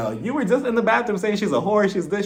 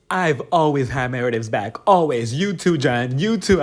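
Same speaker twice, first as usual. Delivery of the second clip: mock angry rant; 5 semitones lower than usual. Voicing Lisa's bathroom rant.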